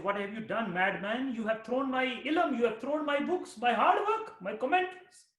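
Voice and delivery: rising to a high, loud wail over lost books; grieving scholar crying out at the madman; anguished protest. Acted. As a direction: build from dismay to a cry of loss. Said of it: "Rumi became sad and angry".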